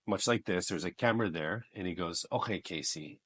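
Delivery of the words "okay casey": lightly lowered casting director voice; a first, understated go at the director. Retold or imitated. Casting director calling in an auditioner, first mild imitation. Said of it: "the casting director ... and he goes".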